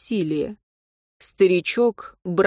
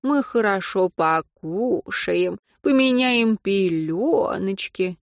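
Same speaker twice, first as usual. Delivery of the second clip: put-on baby talk; much slower than usual. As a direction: coo gently, slowly. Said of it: "приговаривать". (ласковое сюсюканье)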